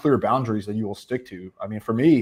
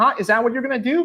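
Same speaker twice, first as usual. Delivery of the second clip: put-on mocking woman's voice, higher; 13 semitones higher, 3 dB louder than usual. Retelling what a woman said to her partner: imitating a woman mocking someone. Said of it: "mocking him".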